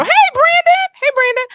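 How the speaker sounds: high, loud sing-song greeting; loud teasing hello; calling out. Real, not acted. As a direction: call his name across the room. Host calls out to arriving guest.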